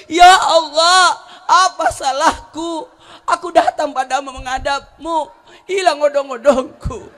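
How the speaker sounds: loud, slow crying lament to God; wailing cry. Acted. Cart driver crying out to God, loud mock wail. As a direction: wail it out, half comic despair. Man cries out after losing cart.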